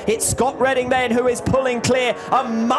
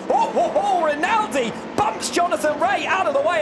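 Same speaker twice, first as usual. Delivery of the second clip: excited; 6 semitones higher than usual. Real, not acted. Crash-like contact in race.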